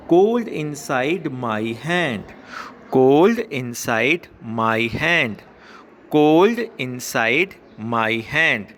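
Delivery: very slow, word-by-word poem reading; slow read-aloud. Shown as a demonstration. Teacher reading a poem line to schoolchildren, slow and measured. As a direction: draw out each word for pupils to follow.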